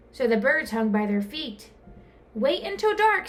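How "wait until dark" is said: much higher and louder; high, eager cry; excited. A narrator's reading. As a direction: bubble over with excitement. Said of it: "Stellaluna said excitedly".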